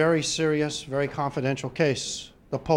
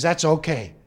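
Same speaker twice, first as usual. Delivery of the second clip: Pope; 3 dB louder than usual. Acted. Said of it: "The pontiff thanks him".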